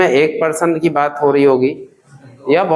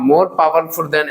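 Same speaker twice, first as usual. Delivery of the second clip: slow drill; 2 semitones lower, much slower than usual. Shown as a demonstration. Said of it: "बोलो".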